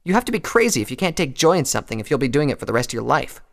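high, loud, scornful challenge; Rainbow's scorn. A narrator's reading. Rainbow looking down on Applejack, loudly scornful. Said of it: "Her lips curled into a sneer".

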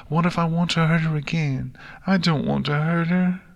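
high, anxious filly voice; small worried kid, rising in pitch; Nix, worried. Acted. Filly fearing she'll hurt Twilight, anxious.

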